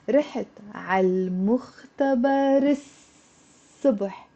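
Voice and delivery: رحت على المختبر الصبح run together as one word; linked. Shown as a demonstration. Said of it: "with a liaison, it's nicer".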